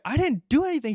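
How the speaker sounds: high-pitched imitation of a protesting brother; defensive denial. Brother sitting there denies the fight, protesting.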